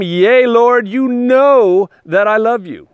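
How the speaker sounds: Peter's earnest reply. Acted. Peter answers Jesus in scripture.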